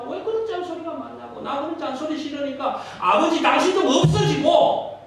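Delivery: high, loud whining complaint; mocking complaint. Son loudly griping about his father's nagging. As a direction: mimic the nagging, loud and annoyed.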